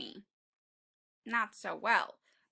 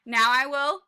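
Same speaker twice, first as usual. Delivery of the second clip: higher, louder cry; falling panic; 4 semitones higher, 6 dB louder than usual. Acted. Tiny crying out as he falls, panicked.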